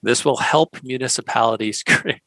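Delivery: trying to read it with a straight face; holding back laughter. Real, not acted. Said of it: "see if I can actually say this without laughing".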